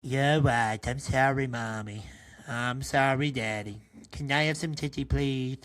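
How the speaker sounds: put-on low, meek baby apologizing; sorry baby. Baby apologizing to his parents, low and meek. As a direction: sheepishly say sorry to mommy and daddy.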